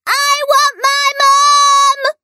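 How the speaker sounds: very high, slow hoot; hooting little princess. A narrator's reading. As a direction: hoot it like a small girl. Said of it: "hooted the little princess".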